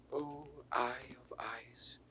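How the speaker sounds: hushed grieving whisper; whispered lament. Acted. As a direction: breathe it out, barely voiced. Lucrece's lament at dawn.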